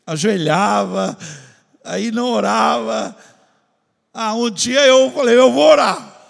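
loud, slow, building sermon voice; preaching loud. Acted. Preaching his prayer struggle.

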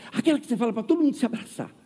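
quick, lightly voiced timid lady; shy elderly lady. Shy old lady recalls the hug, lightly voiced timid. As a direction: rush the words out shyly. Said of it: "ela tem bem tímida assim".

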